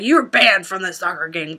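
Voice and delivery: retold angry referee. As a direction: imitate a referee throwing someone out. Retold referee throwing parent out.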